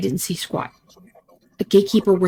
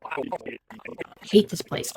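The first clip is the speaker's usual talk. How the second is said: slow, much softer whisper; whispered despair; 7 dB quieter, much slower than usual. Acted. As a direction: breathe it out very slowly, barely voiced. Alone, talking to herself.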